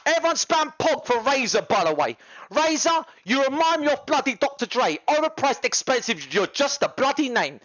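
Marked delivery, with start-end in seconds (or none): 2.5-7.6 mocking rant. Mock-addressing Razer.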